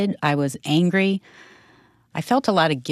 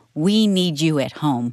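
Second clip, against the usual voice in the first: normal talking voice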